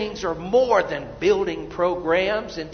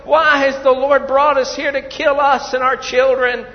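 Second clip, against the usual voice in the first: mock wailing complaint; 3 semitones higher, 6 dB louder than usual. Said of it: "they began to cry".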